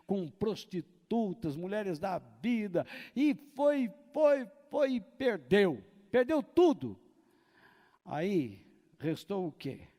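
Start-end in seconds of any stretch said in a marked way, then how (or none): 3.1-7.0 voz bem alta e aguda, palavra por palavra; pregação inflamada. Real, not acted. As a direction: martelar cada queda num crescendo dramático. Pregador dramatiza a ruína do filho. (pregação exaltada, aos brados)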